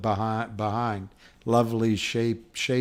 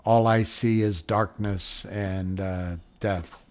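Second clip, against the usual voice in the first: depressing; 3 semitones lower, slower than usual. Retold or imitated. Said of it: "she says something depressing".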